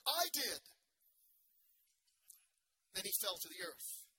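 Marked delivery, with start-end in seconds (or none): 0.1-0.6 puffed-up, louder boast; proud yell. A narrator's reading. The frog boasting to the farmer below, a proud yell. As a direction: crow it out, all puffed up. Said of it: "the frog yelled, And then all puffed up".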